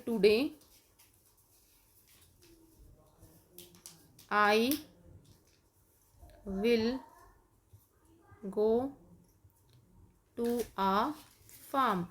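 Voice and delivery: today I will go to a farm, very slowly with long pauses; slow dictation. Shown as a demonstration. Teacher dictating slowly while kids write. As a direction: dictate each word at writing speed. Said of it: "आप लिखेंगे".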